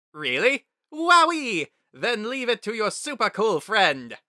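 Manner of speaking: Papyrus, thrilled. A narrator's reading. Papyrus overjoyed at Frisk's praise, high loud excitement. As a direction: burst with delight.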